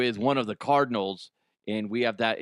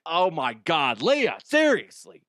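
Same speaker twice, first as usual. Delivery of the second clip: high, drawn-out mock dismay; exasperated doctor; 4 semitones higher, 3 dB louder than usual. Doctor scolds patient over eating sugar, high exasperated mock plea. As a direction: plead slowly in disbelief, pitched high.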